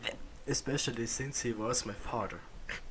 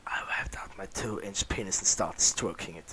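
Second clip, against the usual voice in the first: whispered narration; 3 semitones lower than usual. Acted. Reader whispering a racy story aloud, whispered. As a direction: breathe the words as a hushed story.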